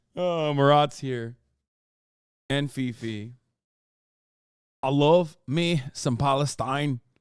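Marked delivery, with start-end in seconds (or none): 4.8-7.0 attempted Scottish accent. Speaker tries out an accent for listeners, in a Scottish accent. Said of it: "your Scottish accent sounds like my Scottish professor".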